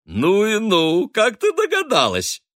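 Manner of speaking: high, loud, slow gushing; delighted. A narrator's reading. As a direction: gush with glee at the clever girl. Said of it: "радостно подсказала".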